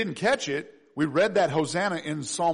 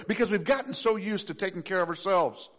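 ordinary delivery

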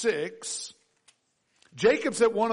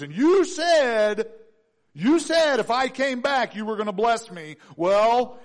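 urgent prayer; 3 semitones higher, 4 dB louder than usual. Acted.

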